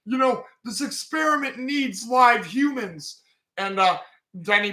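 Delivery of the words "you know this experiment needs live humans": higher-pitched indignant retort; upset protest. Retold or imitated. Edward snapping at the guards about the experiment, higher pitched. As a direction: push back hard, voice climbing. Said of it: "And Edward's like".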